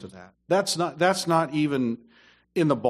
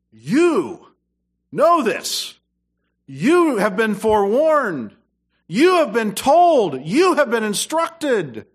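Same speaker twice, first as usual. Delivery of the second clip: loud, high, slow preaching voice; full-force preaching; 7 semitones higher, 7 dB louder, slower than usual. Acted. Preacher warning church they were forewarned, loud and high. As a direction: thunder it at the congregation.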